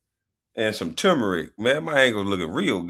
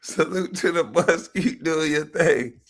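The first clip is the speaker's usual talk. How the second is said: read-out comment; 5 semitones higher than usual. Retold or imitated. Voicing someone else's comment.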